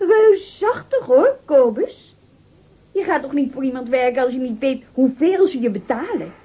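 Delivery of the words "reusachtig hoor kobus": mocking. Fiancée mocks his vague pay.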